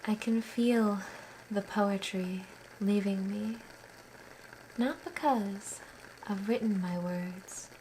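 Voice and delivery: measured poem recital with long pauses; unhurried, even-toned verse reading; poetry reading. Acted. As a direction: read it line by line, letting each phrase settle. Reads own poem aloud.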